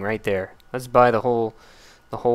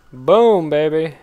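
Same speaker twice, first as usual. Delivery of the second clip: louder, higher victory shout; triumphant cheer; 4 semitones higher, 6 dB louder, slower than usual. Real, not acted. Gamer cheering a successful move, loud and pleased. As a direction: celebrate the hit.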